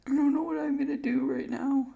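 high, cracking voice, close to tears; the words break up as tears take over. Real, not acted. Kid pleads about his lost account, voice breaking. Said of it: "I'm so sorry that I seem emotional".

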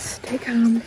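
hushed whisper. Real, not acted. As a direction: whisper it under the breath. Whispered to viewers.

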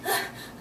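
heavy winded exhale; breathless sigh. Real, not acted. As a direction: blow out a tired breath. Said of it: "I'm out of breath here".

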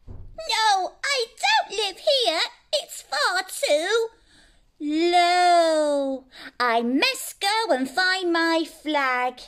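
high, teary little dragon voice; upset little dragon. Acted. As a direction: whimper it like a lost baby dragon. Lost dragon answering, upset.

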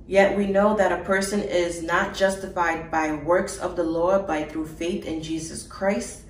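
steady, measured reading of a Bible passage; even, formal scripture reading. Acted. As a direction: read the verse with conviction. Reads scripture aloud.

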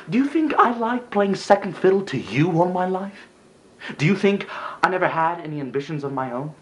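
high-pitched, wounded challenge; aggrieved, pitch leaping up; indignant accusation. Acted. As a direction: throw the questions at him in resentment. Acted accusation of favoured brother.

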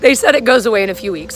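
talking with a new lisp; slight lisp. Real, not acted. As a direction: lisp from fresh aligners. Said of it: "I have a little bit of a lisp".

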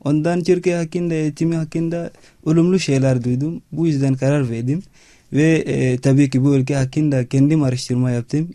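non-native Turkish with an African accent; halting learner's Turkish, real accent; foreigner broken turkish. Real, not acted. Chadian student speaking learned Turkish.

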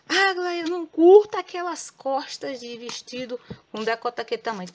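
high, loud mock viewer objection; imagined viewer complaint.

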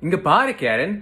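loud Tamil line, rising high; Tamil speaker. Acted. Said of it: "how would somebody from India say it?".

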